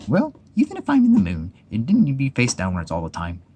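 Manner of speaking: high little Piglet voice, wondering; a tiny timid animal talking to himself; small Piglet voice. Acted. Piglet wonders aloud after the bang, high and small.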